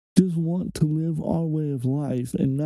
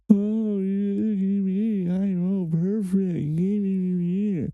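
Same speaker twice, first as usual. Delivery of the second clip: mocking smug voice; 4 semitones higher, slower than usual. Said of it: "act like".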